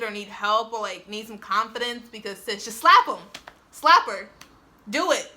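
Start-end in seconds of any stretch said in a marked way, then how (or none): 2.4-5.3 joking hype. Acted. Hyping viewers up jokingly.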